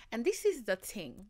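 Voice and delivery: African accent slipping out. Real, not acted. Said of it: "this African accent has spawned from".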